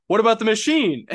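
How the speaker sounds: high, loud protesting question; imitating arguing salesman. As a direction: throw it out high and loud, mock indignant. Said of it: "Roma's like".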